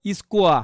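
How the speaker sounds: স্কোয়া as "iskwaa", open ending without r; dictionary pronunciation, silent r. Shown as a demonstration. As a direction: leave the r off the end of স্কোয়া. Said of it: "ওর উচ্চারণ কি করে".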